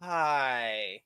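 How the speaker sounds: low, soft, uneasy hi; wary greeting. Retold or imitated. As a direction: greet them like you're unsure who they are. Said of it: "you kinda looking like".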